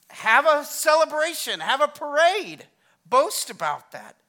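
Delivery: rally the room with full volume; punchy, loud celebratory urging; rallying exhortation. Real, not acted. Urging the congregation to celebrate victory.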